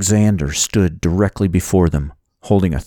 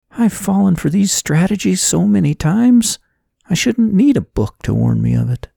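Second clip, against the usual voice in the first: much higher-pitched character voice, self-reproachful; exasperated young heroine; 12 semitones higher than usual. A narrator's reading. Woman scolding herself after closing the book, high and exasperated.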